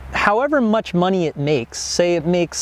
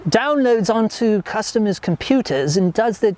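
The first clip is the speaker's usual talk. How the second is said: higher, slow, hammed-up British accent mocking a rival; slow, higher British accent sneering at a competitor; 5 semitones higher, slower than usual. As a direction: play the shady competitor in a put-on British accent. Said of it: "I'll put on the British accent".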